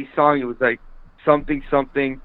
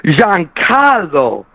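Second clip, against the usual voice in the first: slow, drawn-out, higher announcer home run call; John Sterling home run call; 7 semitones higher, 5 dB louder, much slower than usual. Retold or imitated. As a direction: stretch every syllable like a radio play-by-play. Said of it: "That's the home run call".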